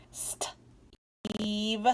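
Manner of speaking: Steve whispered. Shown as a demonstration. Teacher whispering Steve to the class. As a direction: breathe Steve softly. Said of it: "the long E says E".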